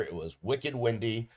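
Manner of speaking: put-on light Boston accent, wicked stretched; playful Boston accent. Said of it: "so I decided to use my Boston accent".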